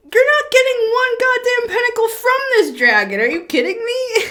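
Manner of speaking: high, loud mock outrage as the dragon; scoffing dragon. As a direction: scoff down at the tiny creature in a hammed-up huff. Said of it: "It's like".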